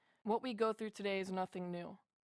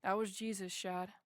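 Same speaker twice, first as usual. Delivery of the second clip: calm; 5 dB quieter than usual. Retold or imitated. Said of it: "And very calmly".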